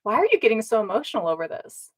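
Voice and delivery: quick, lilting mock concern; needling relative, imitated. Relative pestering the speaker about being emotional, mock needling. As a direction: goad them with a hurried, swooping question. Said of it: "and they're like".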